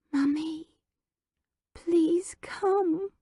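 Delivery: high whispered little voice; tiny quavering plea; quavery lisping child. Acted. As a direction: plead like a desperate toddler. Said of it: "all quavery and lisping and desperate".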